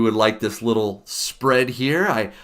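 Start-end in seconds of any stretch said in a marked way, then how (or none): 2.1-2.3 a hint of a bad Irish lilt; mock Irish, barely put on; half-hearted Irish accent for Saint Patrick's Day; lousy Irish accent. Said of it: "That's a lousy Irish accent".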